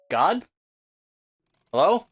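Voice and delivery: plain reading voice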